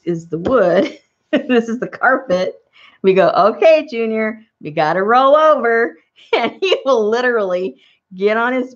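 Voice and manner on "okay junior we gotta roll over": high, louder pep-talk to a pet; mock rallying call, pitched up; coaxing the dog. Acts out cheering dog to roll.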